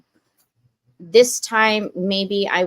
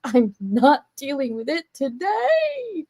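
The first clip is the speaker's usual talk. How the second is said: mock dismissive quote; 6 semitones higher, slower than usual. Acting out dodging the bad stuff.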